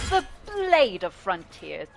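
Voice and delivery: hint of a generic heroic man; slow, lightly voiced gallant introduction; lightly put-on swordsman, drawn-out words; Will. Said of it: "Will, I can really only do".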